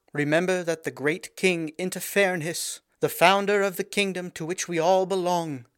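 high, slow, ringing proclamation; clear ringing tones. A narrator's reading. Princess addressing her people in clear ringing tones. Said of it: "she said in clear, ringing tones".

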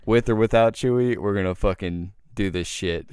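half-mock fed-up declaration; telling the group off for waiting on Chewy, a mild mock anger; mildly angry. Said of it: "I was pretty mad at fucking Chewy".

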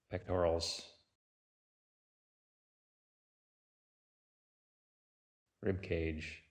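unhurried meditation guide with long pauses between phrases; guided meditation. Real, not acted. Teacher leading listeners through a body sweep, calm guided-meditation delivery.

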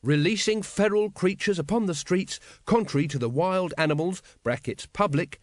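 put-on high, keen young constable reciting; reciting the law. Carrot quotes the statute to Vimes, happily reciting. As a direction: rattle off a statute with pride.

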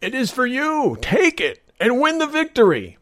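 high, urgent tempting cry; excited old magician. Acted. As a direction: thrust the sword at him, eager. Old man waves sword.

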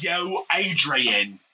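slow, drawn-out boxer voice; Rocky impression. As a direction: stretch it out like Rocky. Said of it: "I'm Rocky Balboa".

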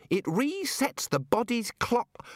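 high, slow squeak; straining child voice. A narrator's reading. Child-sized wizard struggles to explain, high drawn-out squeak. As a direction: force the words out in a small child's voice.

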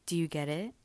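talking around a cough drop; sucking a throat lozenge. Real, not acted. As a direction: lozenge in the mouth, slightly raspy. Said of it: "I have a cough drop in my mouth".

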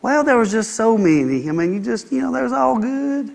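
a light put-on of a flattering churchgoer; hesitant fumbling. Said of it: "most people will be like".

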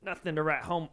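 put-on New York accent. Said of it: "describe how the comedy show was in a New York accent".

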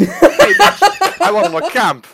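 excited shouting. Real, not acted. Gloating shout at the hosts.

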